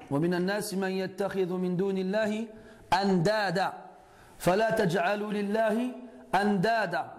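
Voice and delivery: quick chanted verse; Quran recitation. Acted. Teacher cites the Quran to students, flowing chant.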